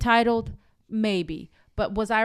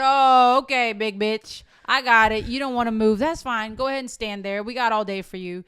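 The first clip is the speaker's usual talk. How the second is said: retold angry sarcasm; 6 dB louder than usual. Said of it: "saw red".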